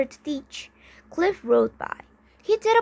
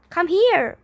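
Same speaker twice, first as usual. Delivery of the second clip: loud, higher call out; shouted call; 6 semitones higher, 6 dB louder than usual. A narrator's reading. Boy calling Geordie over, shouting. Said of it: "Arjun shouted".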